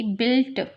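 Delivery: बिल्ट ending in a crisp t sound; German dt as t. Shown as a demonstration. Teacher modelling German word बिल्ट with a final ट. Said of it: "यहाँ ट की sound आती है".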